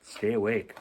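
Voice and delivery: soft hushed repeat of awake, falling; quiet echo. Shown as a demonstration. Reader echoes the sky message quietly to the child. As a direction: murmur it back gently.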